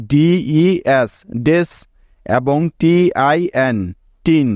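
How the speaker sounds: slow, drawn-out "ডিই এস ডেস" letter by letter; sounding out slowly. Shown as a demonstration. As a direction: spell it out slowly for the class. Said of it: "দুটি syllable পাই". (ধীরে ধীরে বানান করে বলা)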